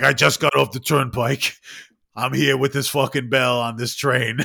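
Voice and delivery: put-on loud, brash New Jersey hobo accent; a gruff Jersey guy shouting over the train. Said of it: "the most New Jersey fucking voice".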